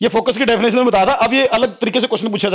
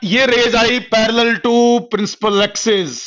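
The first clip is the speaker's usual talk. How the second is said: slow dictation; much slower than usual. Shown as a demonstration. Teacher dictating notes to class.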